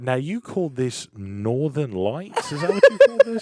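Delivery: bewildered guest asking about the weed name; mock Hugh Jackman. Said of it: "he'd be like".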